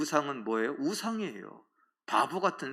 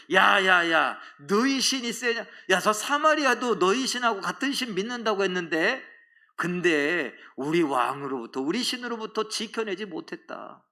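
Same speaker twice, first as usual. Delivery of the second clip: raised, scornful boasting; taunting challenge; 4 semitones higher than usual. Acted. Assyrian conqueror to King Hezekiah, taunting.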